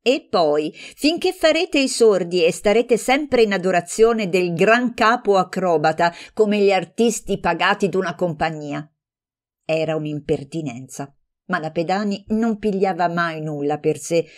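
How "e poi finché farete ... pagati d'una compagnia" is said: heated jab. Acted. Heated quarrel between friends.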